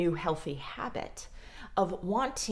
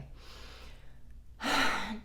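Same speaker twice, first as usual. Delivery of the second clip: weary sigh; 3 semitones higher, 5 dB quieter than usual. Retold or imitated. Weary sigh before chore.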